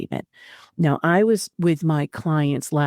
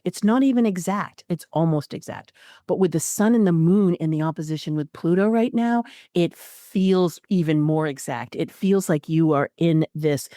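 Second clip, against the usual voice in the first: ordinary delivery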